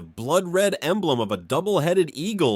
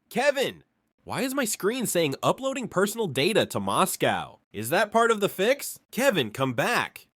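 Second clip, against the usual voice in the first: higher mock-panicked yell; old man hollering for help, higher pitch; yelling into the phone; 5 semitones higher than usual. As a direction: call out in fake alarm. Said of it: "I yell into the phone".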